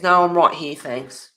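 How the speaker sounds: loud on the no, dropping away on thanks; mimicked terse refusal; pointed refusal. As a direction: imitate a curt brush-off, hitting the first words hard. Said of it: "it was the way she said it".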